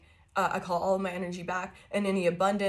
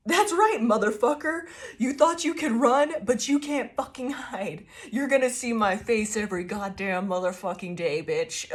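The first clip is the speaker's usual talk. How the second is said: defiant taunt; 3 semitones higher than usual. Acted.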